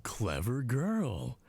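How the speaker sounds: very slow, patronising praise; smug, drawn-out approval; condescending. Acted. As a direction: savour it, talking down to her. Condescending to subordinate.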